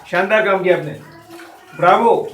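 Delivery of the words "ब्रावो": a loud, delighted bravo; cheering bravo. Acted. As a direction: call it out like applauding. Teacher acts out praise cheer. (ज़ोर से तारीफ़ भरा Bravo)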